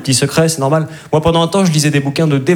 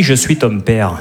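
Darth Vader line; 4 semitones lower, slower than usual. Pretend. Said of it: "Dark Vador avec l'accent du Midi".

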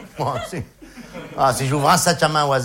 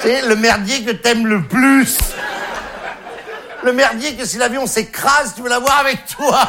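building excitement; 7 semitones higher than usual. Acted. Mock-dramatic climax.

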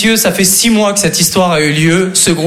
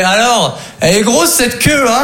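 teasing brother; 5 semitones higher than usual. Retold or imitated. Brother mocking after the joke.

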